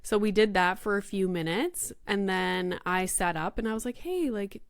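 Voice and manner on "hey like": gentle mother. Retold or imitated. Mother gently asks child for hug.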